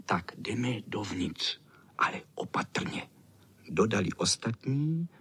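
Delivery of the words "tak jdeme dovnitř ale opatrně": hushed. A narrator's reading. Boys tiptoeing into the garden, softly whispered. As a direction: creep in on a whisper.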